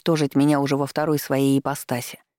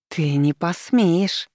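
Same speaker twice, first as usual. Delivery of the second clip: slow, hissed threat; hissing; 2 semitones higher, much slower than usual. Acted. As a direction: hiss it out slowly. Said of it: "зашипела она".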